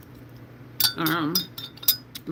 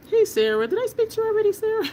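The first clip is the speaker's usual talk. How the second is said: playful greeting; 13 semitones higher, faster than usual. Real, not acted. Teasing greeting to viewer.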